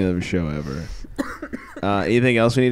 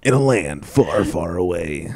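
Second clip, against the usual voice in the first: movie trailer voice; 4 semitones lower, slower than usual. Pretend. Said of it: "movie trailer guy".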